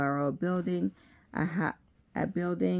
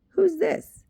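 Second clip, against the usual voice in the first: pitched way up, puzzled and louder; surprised question; 6 dB louder than usual. A narrator's reading. Sharon puzzling over a name card, surprised. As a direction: Sharon voices puzzlement, much higher.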